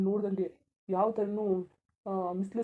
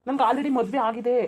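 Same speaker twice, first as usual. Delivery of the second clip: slow, louder, every word weighed; slow firm insistence; 2 semitones higher, 5 dB louder, slower than usual. Acted. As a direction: spell it out slowly so she understands. Husband refuses her proposal, firmly.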